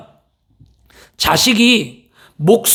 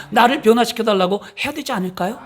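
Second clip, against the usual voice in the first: normal talking voice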